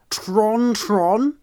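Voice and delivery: baffled repeat, lifting at the end; incredulous echo. Real, not acted. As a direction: question the odd word in disbelief. Incredulous echo of surprising pronunciation.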